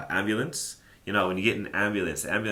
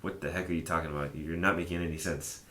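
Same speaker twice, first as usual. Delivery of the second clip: exasperated; 3 dB quieter, faster than usual. Shown as a demonstration. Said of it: "is like that".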